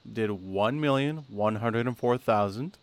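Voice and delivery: measured, spaced-out results announcement; deliberately slow. Real, not acted. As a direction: take the figures slowly, one chunk at a time. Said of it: "I'm gonna say this really slowly".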